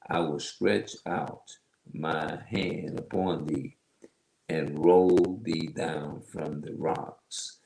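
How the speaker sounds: slow, drawn-out Bible reading; solemn scripture recital at a measured pace. Acted. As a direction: read the verse slowly, phrase by phrase. Reads scripture aloud.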